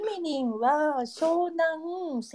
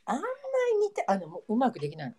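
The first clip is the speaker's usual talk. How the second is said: ユウのモノマネ; 2 semitones lower, 4 dB quieter than usual. Pretend. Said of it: "今、ユウになったつもりで".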